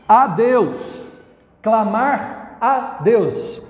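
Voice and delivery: slow, separate stress on "A Deus"; drawn-out, deliberate emphasis on "Deus"; emphatic. Real, not acted. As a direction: spell out "Clamar a Deus" with weighty pauses. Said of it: "Por que que eu tô enfatizando isso?".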